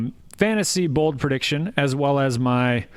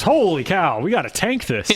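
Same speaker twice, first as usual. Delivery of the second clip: mock realization; 6 semitones higher than usual. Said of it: "Miami realized".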